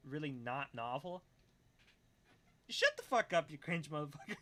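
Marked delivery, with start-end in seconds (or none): 2.7-4.4 mock outrage. Mock telling off a chatter.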